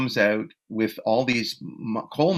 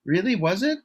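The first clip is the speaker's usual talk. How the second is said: much higher, eager and hopeful; mock needy star, much higher; puppy-dog eager; 10 semitones higher than usual. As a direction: plead for praise like a hopeful kid. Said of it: "looking at me with big puppy dog eyes".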